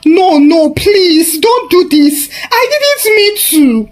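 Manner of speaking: high, tearful begging; desperate mother pleading in tears; crying plea. Acted. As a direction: beg through tears, voice climbing high. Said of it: "collapsed to the ground crying".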